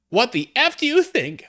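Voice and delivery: high, loud angry snap; hammed-up fury at her friend. A narrator's reading. Ebony snaps angrily at her concerned friend. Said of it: "I asked angrily".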